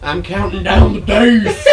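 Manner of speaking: eager. Acted. Playful eager reply.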